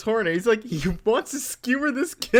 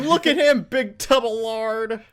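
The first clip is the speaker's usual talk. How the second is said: mocking jeer. Onlookers laughing at the fallen Santa, mocking jeer. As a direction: jeer like a crowd pointing at someone.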